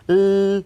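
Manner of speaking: "l" as one long held consonant; isolated L sound. Shown as a demonstration. Demonstrating the sound of the letter, held "l". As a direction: hold "l" loud and steady, no vowel. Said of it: "É o som da letra L".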